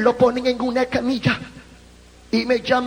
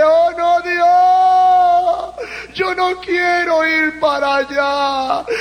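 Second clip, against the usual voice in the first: pleading fear; 5 semitones higher, 3 dB louder, slower than usual. Retold or imitated. Pleading in terror at the pit.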